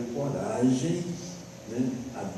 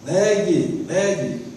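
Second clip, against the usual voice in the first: loud, high shouted demand; crowd shouting; 6 semitones higher, 7 dB louder, much slower than usual. Retold or imitated. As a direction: shout it like an angry mob's order. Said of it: "eu ouvi o povo gritar".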